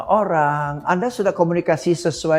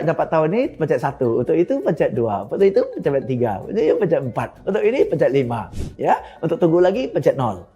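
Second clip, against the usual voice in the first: recorded phone menu; faster than usual. Retold or imitated. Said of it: "dia tunggu".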